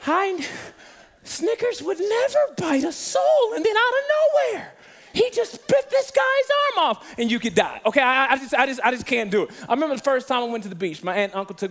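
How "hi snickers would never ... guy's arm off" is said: much higher, slower, put-on dramatic TV voice; mock witness on Animals Gone Wild, high and slow; TV interview victim voice. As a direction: play a shaken witness on a wild-animal show. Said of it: "every interview starts off on Animals Gone Wild".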